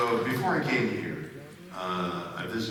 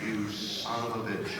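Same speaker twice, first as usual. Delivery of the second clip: laughing curse; 4 dB quieter than usual. Retold or imitated. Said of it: "I thought that was funny".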